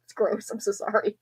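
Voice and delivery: stuffy nose from talking; congested. Real, not acted. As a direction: talk through a blocked nose. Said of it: "I'm getting congested".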